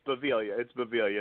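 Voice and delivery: "Baviglia" said with a silent G. Shown as a demonstration. Guest correcting the host on his surname, silent G in "Baviglia". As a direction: say "Baviglia" without sounding the G. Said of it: "The G is silent".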